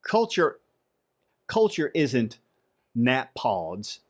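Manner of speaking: badly faked Texas drawl, broken by pauses; terrible Texas accent. Shown as a demonstration. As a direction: have a shaky go at a Texas twang. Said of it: "Texas accent a little bit better than my Australia one".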